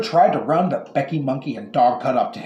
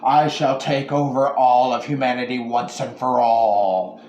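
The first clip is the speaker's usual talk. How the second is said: in unison. Acted. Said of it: "everyone in the world said in unison".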